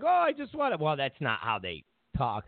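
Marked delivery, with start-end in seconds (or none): 0.0-0.8 mock Taiwan president. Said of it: "the president of Taiwan's like".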